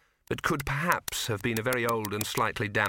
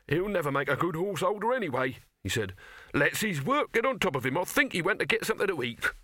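grumbling horseholder; 6 semitones higher than usual. Acted. Horseholder gives up Victor's whereabouts.

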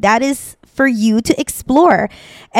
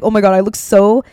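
self-conscious student; 4 dB louder than usual. Retold or imitated. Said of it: "if you're like".

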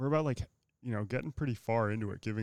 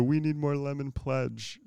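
slow, higher mock Mexican accent; attempted Mexican accent; 4 semitones higher than usual. Shown as a demonstration. Showing friend how to find the sound, mock Mexican accent. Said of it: "start Chinese and turn it Mexican".

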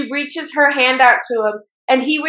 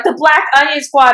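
The Black Onion Squad said a little higher and louder, grandly; dramatic announcement; 3 semitones higher, 4 dB louder than usual. Retold or imitated. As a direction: announce it like an epic anime reveal. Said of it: "they're like".

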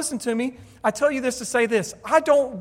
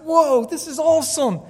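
imitating excited child; 5 semitones higher than usual. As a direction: mimic a thrilled little boy. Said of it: "He was like".

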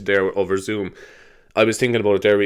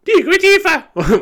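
much higher, slow and louder squeak; squeaky high Aoife; 6 dB louder, slower than usual. Retold or imitated. Mocking the girl's voice on the school tape, high and squeaky. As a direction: squeak the name like a tinny girl on tape. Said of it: "why does Aoife sound like".

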